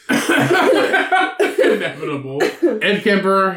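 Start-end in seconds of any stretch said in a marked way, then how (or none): 0.1-2.4 slow drawn-out. Shown as a demonstration.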